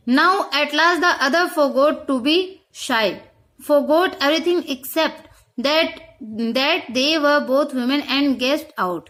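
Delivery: each English word read out slowly and clearly; slow story reading. A narrator's reading. Teacher reading the story aloud to the class, slow and deliberate.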